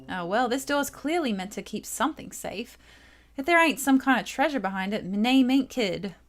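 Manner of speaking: lightly voiced cocky thief girl with a put-on accent; a hint of a brash treasure hunter sure of the loot; Kid voiced. Kid sizing up the door, in a lightly put-on cocky accent.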